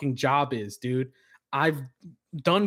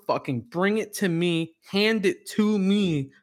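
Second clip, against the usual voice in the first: mock demand; 4 semitones higher, slower than usual. Retold demand to drivers.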